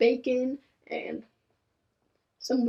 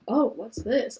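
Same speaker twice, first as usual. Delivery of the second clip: badly faked surprise; nervous bad liar; slower than usual. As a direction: act surprised but unconvincingly. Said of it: "In the most unconvincing tone".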